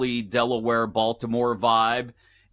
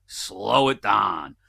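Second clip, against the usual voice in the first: slow, stretched-out mock plea; exaggeratedly slow request; overwhelmed plea; 4 semitones lower, much slower than usual. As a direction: drag it out to slow someone down. Acts out overwhelmed Spanish learner.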